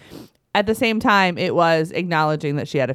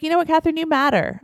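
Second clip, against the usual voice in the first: high, gentle parent voice; imitating a mother reassuring her child; retold mom-to-toddler talk; 11 semitones higher, faster than usual. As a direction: lift it high as if talking to a toddler.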